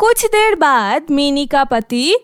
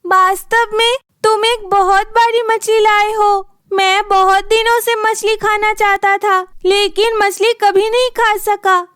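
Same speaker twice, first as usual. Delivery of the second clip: put-on higher, gushing young wife; pleased wife; 4 semitones higher than usual. Minnie praising her husband for the fish, higher and gushing. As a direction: praise him sweetly.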